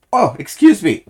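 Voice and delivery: hiccuping mid-sentence; interrupted by hiccups. Real, not acted. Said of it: "I hiccup".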